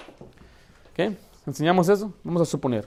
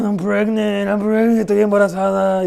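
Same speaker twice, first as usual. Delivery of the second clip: mock sad confession; 5 semitones higher, 4 dB louder than usual. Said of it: "Y están tristes".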